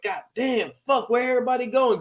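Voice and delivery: high, quick grumble; mock bewilderment. Player as everybody starts running, mock bewildered. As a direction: blurt it fast and high.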